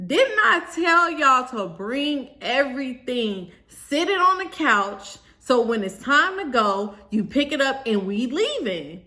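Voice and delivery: pissed-off scolding. Retold or imitated. Bride telling off everybody in the room, mock yelling. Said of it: "'cause now I'm pissed off".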